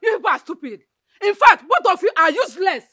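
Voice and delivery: loud contemptuous retort; scornful anger. Acted. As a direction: spit the insult back at her. Mother insults the family.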